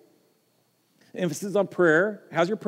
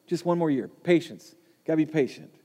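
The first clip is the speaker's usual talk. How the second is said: gentle plea; 3 dB quieter than usual. Acted. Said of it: "the plea from the gardener".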